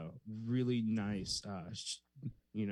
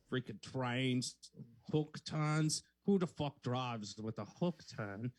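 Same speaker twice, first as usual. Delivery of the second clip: put-on Australian old lady. Last shot at the role, Australian accent turned old lady. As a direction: try an Australian woman, landing on old lady. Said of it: "I transformed into an old lady".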